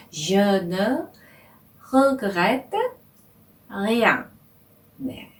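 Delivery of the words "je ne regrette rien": "Je ne regrette rien" word by word; careful demo. Shown as a demonstration. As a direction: model the phrase for students to copy. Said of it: "다시 한번 해볼까요". (학생들이 따라하도록 또박또박)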